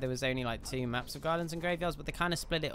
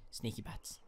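hushed, playful stealth whisper; sneaky whisper; 7 semitones lower, 13 dB quieter than usual. Pretend. Player sneaking up as a bat, whispering. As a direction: whisper it as if creeping up. Creeping as bat character in game.

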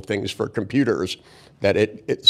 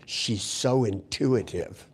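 soft, slow audience murmur; imitated murmur; 5 dB quieter, slower than usual. Audience members to each other about the therapist, imitated slow murmur. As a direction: murmur it in hushed, drawn-out awe. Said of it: "start murmuring to each other".

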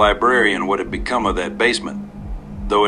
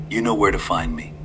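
put-on old man voice. Old stranger to the frightened boy, sly and hushed.

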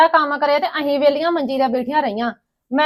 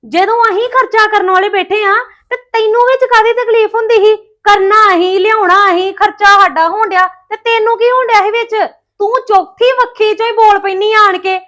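angry reproach; 4 semitones higher than usual. Acted. Sister-in-law quarrel over expenses.

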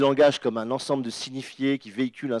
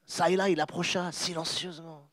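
hushed reading demo; 4 semitones higher, 7 dB quieter than usual. Shown as a demonstration. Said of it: "Donc t'as ça et là".

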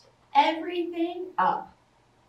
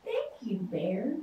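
soft, hushed thank-you, much quieter; whispered thanks; 4 semitones lower, 7 dB quieter than usual. A narrator's reading. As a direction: breathe the thanks gently to the bear. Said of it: "she whispered".

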